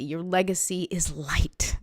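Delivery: breathy unvoiced whisper of the line. Real, not acted. Repeated line, first whispered.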